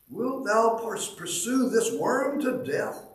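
high, slow pleading cry to the Lord; trembling cry. Acted. The hymn's speaker crying out to the Lord in anguish, trembling. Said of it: "I cried, trembling".

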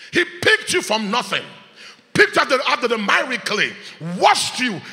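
loud, building sermon cadence; fervent preaching. Acted. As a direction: drive each "gave you" home. Preaching at full force.

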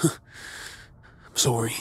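mocking whisper. Mock apology after laugh.

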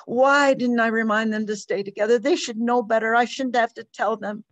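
mother pouring out fear for her lost son, rising to panic; distraught mother. Acted. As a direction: spill out the fear until it breaks at the top. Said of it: "poured the story out".

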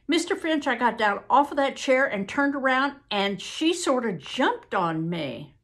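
high-pitched opening, easing into hesitant account; agitated witness. Acted. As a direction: testify anxiously in Southern dialect. Witness resumes testimony.

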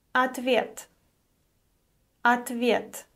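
ответ with the first о said as а; teacher pronunciation demo; careful Russian word. Shown as a demonstration. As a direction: model ответ clearly. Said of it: "O is unstressed and is pronounced as а".

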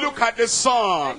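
lightly voiced God, preached firmly; measured preacher's voice for God; Almighty God. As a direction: deliver it as a divine command. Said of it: "Almighty God said".

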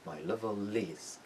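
"My level is" slowly, joined as "my leve-liz"; slow model with "level is" linked; linked final L. Shown as a demonstration. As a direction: carry the L of "level" into "is".

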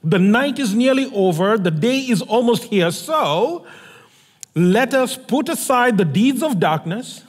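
measured, solemn reading of a Bible passage; scripture reading. Acted. Scripture reading opening the sermon.

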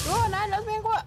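high panicked shriek; panicked scream. Real, not acted. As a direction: scream it, the ghost is on you. Ghost hunting her, panicking.

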